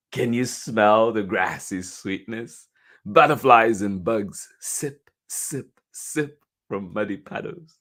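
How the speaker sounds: deliberate read-aloud, spaced little sips; picture-book reading. A narrator's reading. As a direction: read slowly to small children, stressing each image.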